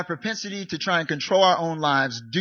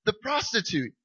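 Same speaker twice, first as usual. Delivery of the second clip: pleading protest; 7 semitones higher than usual. Retold or imitated. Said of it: "I'm like".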